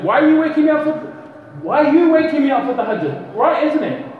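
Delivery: a lightly voiced sleeper suspicious of Shaitan; indignant question. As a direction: call out the trick, half-amused.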